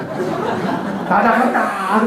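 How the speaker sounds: slow, loud, high drawn-out "I'm leaving!"; spirit crying out. Retold or imitated. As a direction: stretch out the cry of a defeated spirit. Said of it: "나간다고 소리까지 하더라고요".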